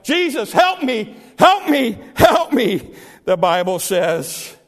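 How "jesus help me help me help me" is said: insistent high cry for help; Barnabas. Retold or imitated. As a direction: keep crying out, each plea punched. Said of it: "Barnabas keeps his cry up".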